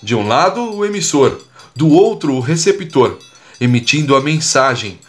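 measured cordel recitation, clear pauses between phrases; verse recitation. Acted. Podcaster reciting a rhymed tip to listeners, measured verse recitation.

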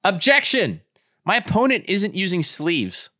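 high-pitched, playful lawyer's objection; mock courtroom objection. Lawyer objects to the judge in a game, mock outrage. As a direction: call it out high, like a pretend lawyer.

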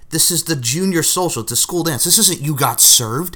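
incredulous rant climbing high and loud; mock exasperation into laughter. Reading own note on the dance battle, exasperated, breaking into laughter. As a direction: build from protest to shrieky laughing.

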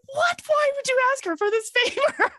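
very high squeaky disbelief; shocked squeal. Retold or imitated. Shocked coach asked Stacy.

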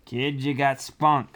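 slow character voice with a hint of swagger; snow-kid character voice. Snow kid Squee encourages the penguin, lightly voiced character. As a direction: lightly voice a plucky kid, drawn out.

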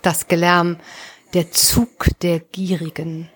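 measured recital with pauses between phrases; poem reading. Acted. Author reciting a late-summer poem for podcast listeners, measured poem reading. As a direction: read the verse evenly, giving each image its own space.

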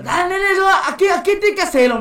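high, loud nagging señora; imitated pushy boss. Señora ordering shy vendor to cry out, imitated pushy nagging. Señora pushing him to shout.

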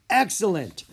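loud, high delighted cheer. Acted. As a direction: cheer the result. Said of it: "Griffith cheered".

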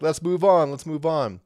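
lightly acted urging, easing off on the repeat; impatient listeners. Listeners fed up with repeated context, mildly impatient. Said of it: "but you're like".

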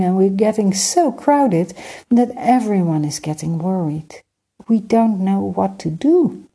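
put-on a polite young prince, earnest and hopeful; young prince Emir. Prince Emir explaining his crowded kingdom to Skymaker, light boyish voice.

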